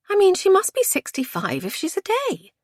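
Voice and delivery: very high-pitched disbelief; high, incredulous woman. A narrator's reading. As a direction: exclaim it like scandalised gossip.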